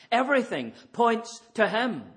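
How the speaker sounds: ringing declaration from the pulpit; emphatic preaching. Real, not acted. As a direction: proclaim it to the back row. Preacher drives home his point.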